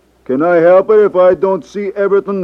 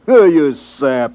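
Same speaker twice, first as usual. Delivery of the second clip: laughing scornfully, slow; mocking laugh; slower than usual. Leroy scoffs at Cleo's plan, laughing and slow. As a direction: laugh him off as a fool.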